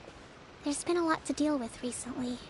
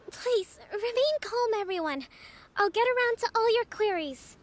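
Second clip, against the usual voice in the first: raised, higher voice to settle a crowd; calling over a crowd; 5 semitones higher than usual. Acted. Leader calling out to the crowd of petitioners, raised and higher. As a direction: project firmly but kindly to everyone.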